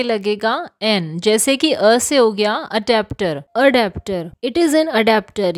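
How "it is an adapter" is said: slow example sentence. Shown as a demonstration. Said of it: "यह एक adapter है".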